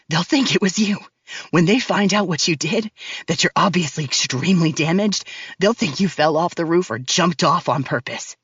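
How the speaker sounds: low, cold male villain voice; deep and cold, taunting her; menacing man. Acted. Max's voice in story.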